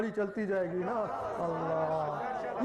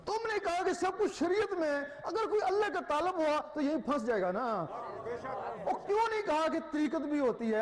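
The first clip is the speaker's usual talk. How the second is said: heated challenge; 5 semitones higher than usual. Real, not acted. Rebukes the scholars directly.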